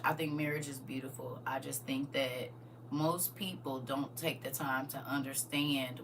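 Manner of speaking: soft whispered confession. Real, not acted. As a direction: whisper it as a private thought. Whispered aside on marriage.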